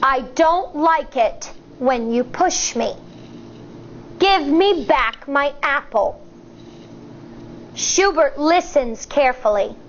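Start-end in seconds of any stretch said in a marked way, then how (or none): 0.0-6.2 slow and firm. Acted. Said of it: "She speaks slowly and firmly".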